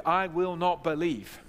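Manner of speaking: each word of "I will not believe" firmly weighted; emphatic refusal. Retold or imitated. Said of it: "It's an emphatic".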